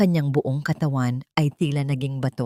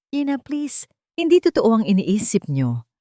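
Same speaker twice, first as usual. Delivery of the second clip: desperate plea; 5 semitones higher, 4 dB louder than usual. Acted. Tala pleads with her mother.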